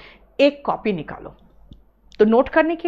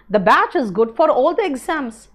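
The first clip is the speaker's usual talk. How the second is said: slow example reading; much slower than usual. Shown as a demonstration. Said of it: "example sentence read".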